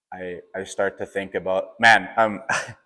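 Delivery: really choking up, halting; getting emotional. Real, not acted. Runner remembering the finish line, getting emotional. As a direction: break off with a small laugh as emotion rises. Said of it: "don't know why I'm getting emotional".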